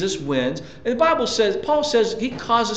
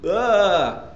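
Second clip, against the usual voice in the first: drawn-out "uh" groan, slightly raised; mock groan; 4 semitones higher than usual. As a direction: groan as if overwhelmed. Mimes being overwhelmed by troubles.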